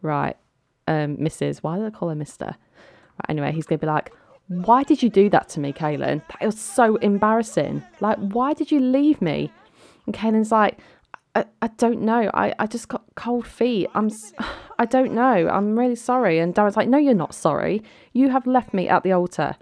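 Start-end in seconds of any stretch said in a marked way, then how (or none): 4.5-9.5 lightly acted indignant protest; mock arguing groom. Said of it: "he's going to argue with her". 11.4-16.4 high, stammering bride; acted flustered apology. 16.9-19.6 mildly indignant groom, slightly raised voice; mock arguing. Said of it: "they're both just shouting at each other".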